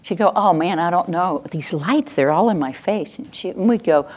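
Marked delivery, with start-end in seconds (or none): 0.3-3.2 mild grumbling about a nuisance; complaining. Acted. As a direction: gripe lightly, put-upon. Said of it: "So she would complain".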